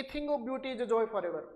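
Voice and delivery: slow recital of "A thing of beauty is a joy forever"; teacher quoting Keats; poem recital. Shown as a demonstration. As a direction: read the Keats line slowly like a poem. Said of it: "जैसे यहाँ पे देखेंगे".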